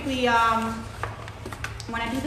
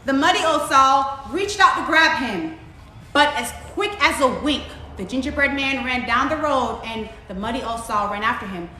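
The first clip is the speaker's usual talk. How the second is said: animated storytime reading, punched key words; story narration; 5 dB louder than usual. A narrator's reading. Reading a picture story to children, animated narration. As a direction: tell the chase with lively emphasis.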